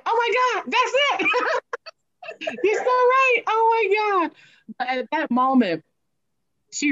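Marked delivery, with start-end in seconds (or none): 0.1-4.3 much higher, laughing and near tears; overjoyed realization. Retold or imitated. Reliving her realization at the seminar, tearful laughing joy. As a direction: burst out in tearful laughing relief.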